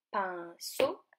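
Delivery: "pinceau" in two beats, rising on the last; syllable by syllable. Shown as a demonstration. Teacher shows children the shared ending, "pinceau" split in two. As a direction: pause before the final syllable of "pinceau". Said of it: "la dernière syllabe".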